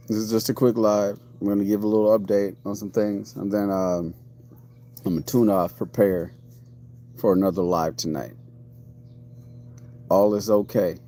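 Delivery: slightly slurred sore-mouth speech; talking a little off. Real, not acted. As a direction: speak carefully around a sore mouth. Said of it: "I'm talking a little, little off".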